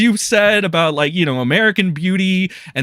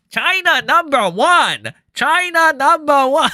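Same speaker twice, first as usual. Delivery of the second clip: mocking impression of Nick Rekieta, higher and shouted; 10 semitones higher than usual. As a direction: chant it like him, teasing. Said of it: "I gotta do this in Rekieta voice".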